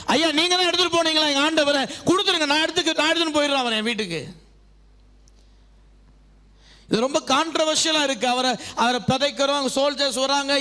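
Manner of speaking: high, pressing sermon voice; fervent preaching. Acted. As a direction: plead as Mary would, preaching it. Preaches Mary's love and plea. (உருக்கமாக மன்றாடும் பிரசங்கக் குரல்)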